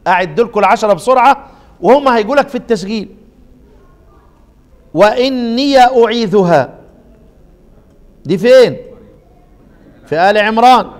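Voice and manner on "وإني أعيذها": وإني أعيذها recited slowly with the ya of إني opened; Quranic recitation. Shown as a demonstration. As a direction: recite slowly, giving إني a clear open ya. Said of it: "زي ما أنا قرأت كده". (تلاوة بطيئة بفتح ياء إني)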